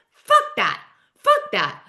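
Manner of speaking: punched, emphatic retold curse; angry dismissal. Heather rejecting the accusation that she lied, angry. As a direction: spit it out twice, each separate and firm.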